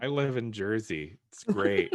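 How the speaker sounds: lightly put-on impression of a co-host; a hint of mimicry, voice close to your own; Pete. Co-host answering for Pete, light impression. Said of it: "That was a great Pete impression".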